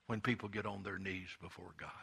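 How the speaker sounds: breathy hushed whisper; soft pulpit whisper. Real, not acted. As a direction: drop to a whisper for reverence. Urging the church to humility.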